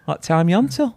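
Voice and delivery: put-on chirpy taxi chat in a Bolton accent; Peter Kay. Passenger chatting to taxi driver in a Peter Kay accent. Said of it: "in a Peter Kay accent".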